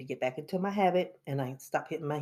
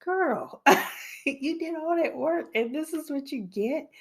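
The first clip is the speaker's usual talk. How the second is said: mocking self-talk; 11 semitones higher than usual. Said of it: "it was like".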